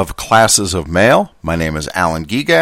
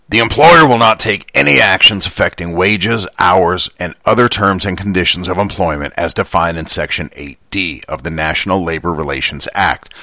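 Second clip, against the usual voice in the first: Dan Carlin gruff voice; 2 semitones lower than usual. Acted. Reading contract text aloud, a mild gruff quote voice. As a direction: read the contract like a gravel-voiced history narrator. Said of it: "use his gruff voice that he uses for his quotes".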